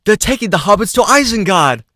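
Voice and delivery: high, loud hammed-up Legolas chant; Legolas meme. Co-host belting the meme line as Legolas. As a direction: belt out the Isengard meme. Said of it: "memeing up with that one".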